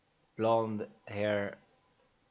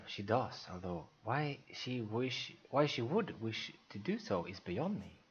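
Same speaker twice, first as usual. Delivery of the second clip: softer, slow musing to himself; thinking aloud; 6 dB quieter, slower than usual. Acted. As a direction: mutter it as a private thought, slowly. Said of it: "thinks for himself".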